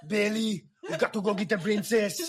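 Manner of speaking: high, laughing hammed-up character voice; silly impression. Rallying Billy to fetch the princess, high and laughing. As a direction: ham up a cartoon hero rallying a friend. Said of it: "I'm not gonna do any more impressions".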